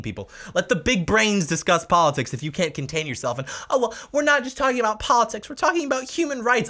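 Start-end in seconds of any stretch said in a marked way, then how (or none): 3.7-6.7 much higher, prissy indignant voice; high mock self-righteous retort; mock celebrity. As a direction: parody the smug reply.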